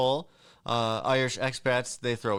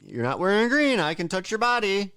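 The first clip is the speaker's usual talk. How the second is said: creepy schoolboy; 7 semitones higher than usual. Retold or imitated. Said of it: "You'd be like".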